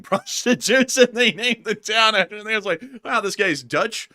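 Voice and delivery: high, loud, laughing through the story; barely holding in laughter. Real, not acted. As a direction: crack up while telling the joke. Laughing through joke about town name.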